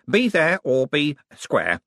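slow, hesitant catchphrase called out; megaphone announcement. A narrator's reading. Wizard ending his warning to researchers, megaphone announcement. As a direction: announce the slogan awkwardly to the room. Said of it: "held it to his lips".

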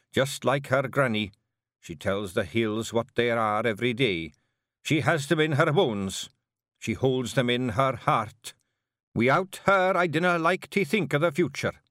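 earnest Scottish chief, building then dropping; Rob Anybody, proud Feegle. Acted. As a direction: swell with pride for the hag. Rob praising hag.

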